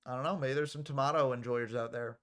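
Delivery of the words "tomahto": "tomato" with a broad AH in the middle; British pronunciation. Shown as a demonstration. Commentator allowing for the other camp, "tomato" with AH. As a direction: say "tomato" as tuh-MAH-toe.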